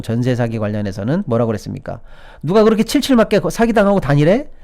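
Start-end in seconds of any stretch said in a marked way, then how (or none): 2.4-4.5 high-pitched blaming rebuke; acted scolding with raised pitch; mock attack. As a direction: imitate an official attacking the victims. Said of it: "라면서 공격을 하면서".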